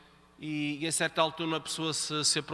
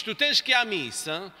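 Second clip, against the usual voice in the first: bossy order; 4 dB louder than usual. Shown as a demonstration. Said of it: "tu estás a actuar como a mãe".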